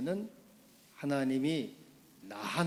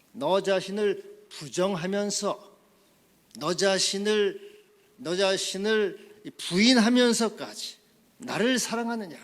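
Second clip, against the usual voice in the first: loud, high pulpit cry, building louder; full-force preaching; 8 semitones higher, 11 dB louder than usual. Acted. Preacher demanding self-denying love for Jesus, preaching building to full force. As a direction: drive each phrase harder, climbing to a shout.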